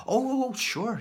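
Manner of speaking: high flustered polite visitor. Retold or imitated. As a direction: gush a flustered, polite yes. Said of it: "they were very polite".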